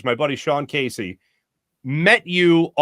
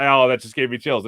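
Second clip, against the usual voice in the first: awed; 5 semitones lower than usual. Real, not acted.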